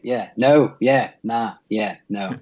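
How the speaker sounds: put-on light Kiwi accent, rising tune; a hint of a Kiwi accent, each phrase lifted like a question. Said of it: "your best Kiwi accent".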